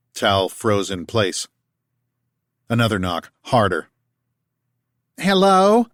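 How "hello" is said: higher, louder southern holler; down-home call. A narrator's reading. Martha calling to Tal through the door, down-home accent. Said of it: "called out a female voice with a down-home accent".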